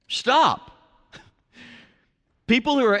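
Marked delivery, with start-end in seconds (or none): 0.1-0.7 sharp loud stop; firm stop. Shown as a demonstration. Pastor demonstrating to congregation, firm loud stop. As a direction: call a halt to yourself. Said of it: "say it aloud to yourself".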